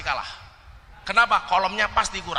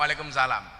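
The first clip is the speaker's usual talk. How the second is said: calm cleric reply; 6 semitones lower than usual. Retold or imitated.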